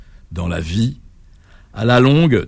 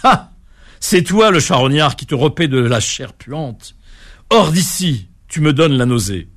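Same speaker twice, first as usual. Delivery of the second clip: scornful rebuke; 3 semitones higher than usual. Acted. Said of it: "pris à partie par la grenouille".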